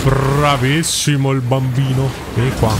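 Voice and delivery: slow patronizing taunt; mocking praise. Real, not acted. Streamer taunting the boss, slow mocking praise.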